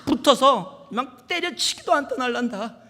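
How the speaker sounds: high-pitched attempt at Gyeongsang accent; shaky-handed amateur Gyeongsang dialect, emphatic. Shown as a demonstration. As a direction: imitate Gyeongsang speech, off-target. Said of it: "이거, 이 마-, 깨는 아닌데".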